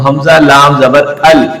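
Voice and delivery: "हमजा लाम जबर अल" read slowly, letter by letter; spelled recitation. Shown as a demonstration. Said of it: "मैं इसको हिजा के साथ पढ़ता हूँ". (हिज्जे के साथ धीमे पढ़ना)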